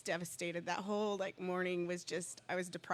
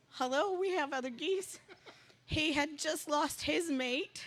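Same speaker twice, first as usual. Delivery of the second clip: higher, laughing through the words; laughing in disbelief; 7 semitones higher, 4 dB louder than usual. Real, not acted. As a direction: giggle at how perfect it is. Amazed at the goose coincidence.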